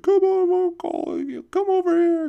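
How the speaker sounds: high, loud call to a dog. Retold or imitated. Owners calling their dog back, high and loud. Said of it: "the owners are like".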